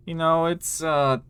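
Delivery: lightly voiced tough guy, drawn out. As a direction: boast of secret work, stretching the words out. Game master voices tough guy.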